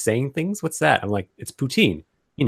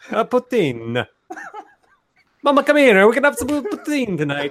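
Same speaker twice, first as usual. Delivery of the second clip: full, very high put-on Italian accent; 10 semitones higher, 3 dB louder than usual. Joking that speaking with your hands makes you Italian: put-on Italian accent. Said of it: "Full Italian".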